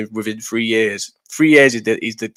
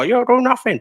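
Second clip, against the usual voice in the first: mock taunt; 11 semitones higher than usual. Imitating people online.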